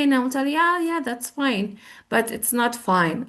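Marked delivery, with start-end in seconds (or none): 0.6-1.8 slow, higher, falsely agreeable; polite words covering anger; hiding fury. Shown as a demonstration. Asked "are you okay?" while furious, passive-aggressive. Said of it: "furious. I'm mad at you".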